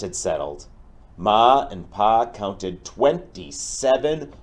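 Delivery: lively storybook read-aloud for a class; reading to children. Acted. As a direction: tell the tale to the kids with expression. Teacher reads picture book aloud.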